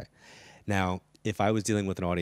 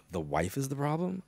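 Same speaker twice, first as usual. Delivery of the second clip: higher pitch, climbing in disbelief; incredulous question; 6 semitones higher than usual. Retold or imitated. Host to producer about the dragged-along husband's wife, incredulous. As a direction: echo it back as a baffled question.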